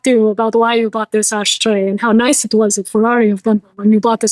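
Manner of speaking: lightly put-on Italian accent. Ferrari head honcho calling up a customer, mock Italian accent. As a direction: play an Italian executive with a touch of accent. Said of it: "In my Italian beautiful accent".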